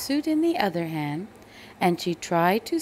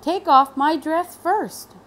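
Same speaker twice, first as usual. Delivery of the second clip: high, loud protest; refusing to back down; indignant teacher; 6 semitones higher, 9 dB louder than usual. A narrator's reading. Teacher fires back at the principal, indignant. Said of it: "The teacher said".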